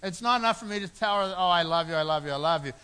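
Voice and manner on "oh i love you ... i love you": a touch louder, sweet-talking his wife; mock doting husband. Husband cooing at his wife, mock doting and louder. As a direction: lay the honey-talk on thick, playfully.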